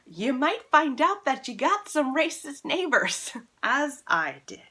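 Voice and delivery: a wry warning that breaks into laughter; amused, half-laughing aside. Real, not acted. Laughing warning about racist neighbors.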